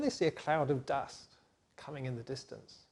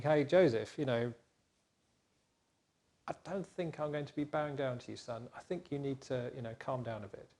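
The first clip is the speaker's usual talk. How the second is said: soft fatherly caution; 2 semitones lower, 5 dB quieter than usual. Acted. Dad quietly telling Joseph to calm down. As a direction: talk him down softly like a dad.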